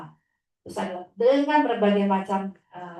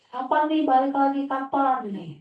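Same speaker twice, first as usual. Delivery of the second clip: put-on higher, louder whiny kid voice asking when; pestering child; 7 semitones higher, 3 dB louder than usual. Teacher imitating her pupil's nagging, high childish whine. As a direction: imitate a little kid nagging to come back.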